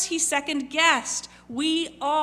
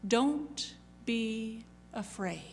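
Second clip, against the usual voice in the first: slow, soft reassuring "Don't be afraid."; gentle reassurance; 6 dB quieter, slower than usual. Acted. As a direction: comfort them slowly and softly. Quoting Jesus' reassurance.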